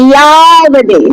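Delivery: ইয়াবদে said as "ya-bo-de" with a ya glide; teacher models ইয়াবদে with the ya glide; Sanskrit pronunciation. Shown as a demonstration. Teacher shows a student how to pronounce ইয়াবদে. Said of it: "এটার উচ্চারণটা কি হবে?".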